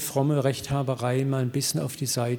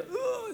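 high, soft mock sob; imitated sob; 6 dB quieter than usual. Preacher imitating the big man weeping on him, high mock sob. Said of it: "Schluchzt wie ein Kind".

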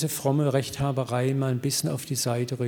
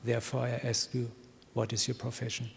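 imitated tearful voice; 2 semitones lower than usual. Big man confiding in the preacher, understated tearful voice. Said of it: "sagt mit tränenerstickter Stimme".

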